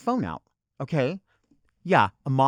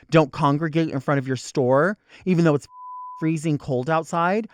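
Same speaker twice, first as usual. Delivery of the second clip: building rant; 6 dB louder than usual. Real, not acted. Escalating rant at clerk.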